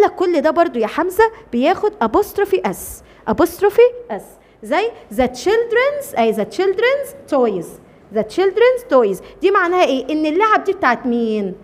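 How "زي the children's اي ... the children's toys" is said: very slow, word by word; teacher dictating the English sentence very slowly; slow dictation. Shown as a demonstration. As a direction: spell it out slowly for the class.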